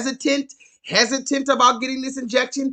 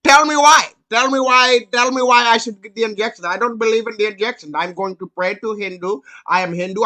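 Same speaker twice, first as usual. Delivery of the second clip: put-on Indian accent; 4 dB louder than usual. Sri Lankan man refusing the injection, in an insistent Indian accent. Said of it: "he was like".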